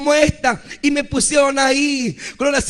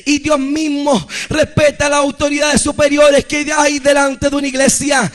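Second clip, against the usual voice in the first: louder preached warning to the church; preaching exhortation; 3 dB louder than usual. Acted. Preacher urging the church to honour authority, loud preaching. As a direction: urge the listeners, rising to a loud close.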